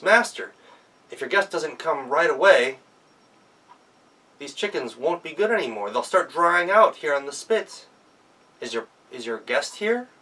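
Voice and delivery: Gretel calls to the master inside the house; calling out. Acted. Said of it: "she called out".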